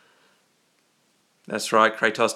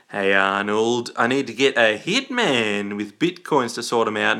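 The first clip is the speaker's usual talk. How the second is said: put-on voice; 3 semitones lower than usual. Puts on voice asking for hitman.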